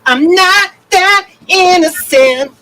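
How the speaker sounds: high, loud, teasing denial; playful mock protest. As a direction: protest your innocence, cheekily. Teased as sweet and innocent.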